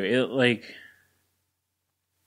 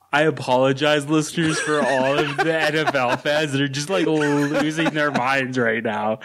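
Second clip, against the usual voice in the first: laughing; 4 semitones higher than usual. Real, not acted. Laughing at NFL fans.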